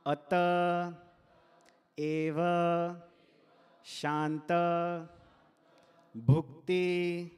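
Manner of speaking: one word at a time, evenly spaced; each word set apart for repeating; staccato. Shown as a demonstration. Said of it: "I'll say it one word at a time".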